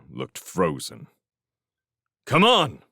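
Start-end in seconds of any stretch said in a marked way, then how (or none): 2.2-2.8 raised, louder call; urgent urging. A narrator's reading. Felix waves the frozen scouts forward, urgently calling. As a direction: press them to move. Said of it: "Felix repeated".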